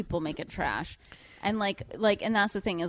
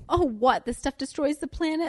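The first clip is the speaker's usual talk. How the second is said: higher-pitched mock astonishment; imagined molecules; 8 semitones higher than usual. Imagining the hairspray reacting to news of planet harm, mock surprise. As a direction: act out a startled little pollutant, pitched up. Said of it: "imagining them being like".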